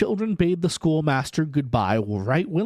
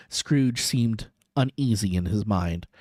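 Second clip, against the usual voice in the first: ordinary delivery, nothing marked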